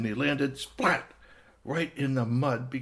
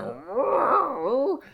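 rodent voice; 13 semitones higher, 6 dB louder than usual. Acted. Rodent greets the cat.

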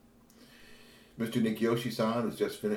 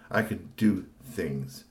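mild sulky retort; much slower than usual. Acted. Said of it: "Tony was so mad".

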